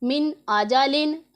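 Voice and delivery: slow, measured Quran recitation with a clear nun in मिन; Quranic recitation. Shown as a demonstration. Teacher reciting slowly for her students. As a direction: recite मिन आजालिन slowly, sounding the नून fully. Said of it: "इसे हम पढ़ेंगे".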